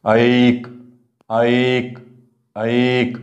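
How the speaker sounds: ऐक with the ऐ stretched long and the क clipped; drawn ai. Shown as a demonstration. Teacher showing pupils ऐक with a long ऐ and clipped क. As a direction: lengthen ऐ in ऐक, clip the क. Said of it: "लांबतंय आणि क".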